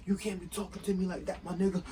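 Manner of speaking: high-pitched mock of an indignant boss; mocking the manager. Worker imitates the manager scolding him, mocking. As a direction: imitate the boss's protest in a high voice.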